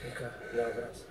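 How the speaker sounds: soft murmur to calm his wife; hushed murmur. Real, not acted. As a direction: hush her gently. Husband hushes before the prayer.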